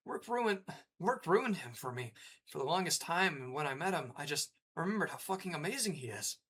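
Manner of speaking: mild teary friend voice; voicing a friend's messages. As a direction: read her texts in a hint of her voice. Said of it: "I'm gonna stop with the voices now".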